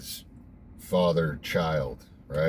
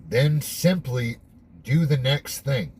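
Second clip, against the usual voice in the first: higher, deliberate read-aloud delivery; 5 semitones higher, 3 dB louder, slower than usual. Real, not acted. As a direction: read it out slowly, pitched up. Reads the text aloud again.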